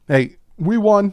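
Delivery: triumphant slow cheer; excited cheer. Real, not acted. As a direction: shout it out as a proud fan. Celebrating the win.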